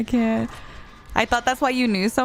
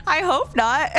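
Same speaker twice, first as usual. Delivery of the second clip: laughing; 4 semitones higher than usual. Real, not acted. Laughing denial to chat.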